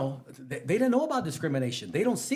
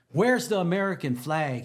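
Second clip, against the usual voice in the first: louder mock demand; demanding principal; 4 semitones higher, 6 dB louder than usual. Principal demanding of the teacher, a louder retold challenge. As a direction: bark it out like a suspicious boss. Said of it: "he says".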